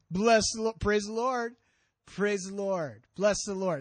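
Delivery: pious catchphrases, lightly put on; hammed-up church-talk piety; mock spiritual. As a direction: sound showily devout, punching each blessing. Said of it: "It sounds very spiritual".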